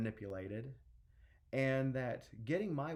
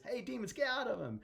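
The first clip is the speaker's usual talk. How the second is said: high-pitched, forceful order; acted high, urgent command; commanding call; 12 semitones higher, 3 dB louder than usual. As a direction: shout the intruders out. Jesus orders demons out.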